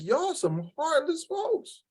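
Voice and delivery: high, soft, drawn-out slow disapproval; disbelief. Retold or imitated. Telling the host what she thought of the crowd, slow high disapproval. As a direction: let it drag out in slow disbelief. Reacting to crowd booing children.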